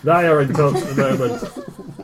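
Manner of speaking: amused, barely holding it; laughing self-correction; laughing through it. Acted. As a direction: correct yourself while laughing. GM correcting pronoun again.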